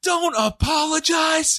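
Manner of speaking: shrill scream, very high pitched. Retelling a wrestling match moment, imitating someone screaming. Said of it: "Marina just screams".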